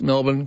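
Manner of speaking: MELBOURNE with a reduced ending, Melb'n; Melbourne said correctly. Shown as a demonstration. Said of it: "on the mispronunciation of names".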